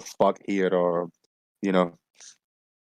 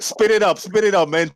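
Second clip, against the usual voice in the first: urging; 7 semitones higher than usual. Real, not acted. Urging friend to speak faster.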